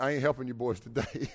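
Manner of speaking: smug line broken by laughter; laughing smugly. Retold or imitated. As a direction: chuckle through the gloat. Demon's smug thought, laughing.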